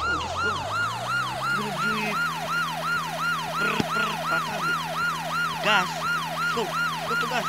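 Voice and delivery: very high, loud squeaky little-creature voice; squeaky cartoon voice. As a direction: squeal it like a tiny excited cartoon critter.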